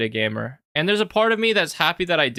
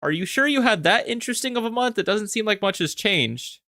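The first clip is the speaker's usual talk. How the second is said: mock doubt; 6 semitones higher than usual. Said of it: "So I'm like".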